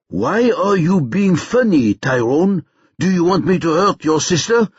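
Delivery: a deliberate, hint-of-menace caller; menacing kidnapper. A narrator's reading.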